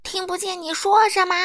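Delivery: loud, high bellow; thunderous shout. A narrator's reading. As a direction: boom at the customer like thunder. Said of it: "声音就像打雷一样". (像打雷一样高声大喊)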